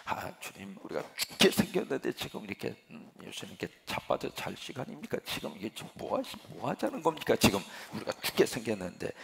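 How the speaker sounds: complaining half-whispered, mock panicky; imitating a sullen protest, partly hushed; sulky grumbling. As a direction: grumble at the sleeping master like frightened disciples. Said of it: "볼멘 소리를 해요".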